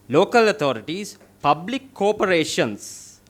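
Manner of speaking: public corporations slowed and weighted, local authorities leaned on; emphasis on key terms. Real, not acted. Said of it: "I'm emphasizing on that words".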